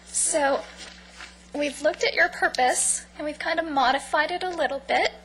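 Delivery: hoarse, fading voice; losing voice. Real, not acted. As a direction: voice giving out. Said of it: "I'm losing my voice".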